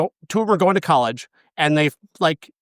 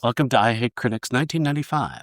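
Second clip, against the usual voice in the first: NPR host voice; 3 semitones lower than usual. Pretend. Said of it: "like N P R people".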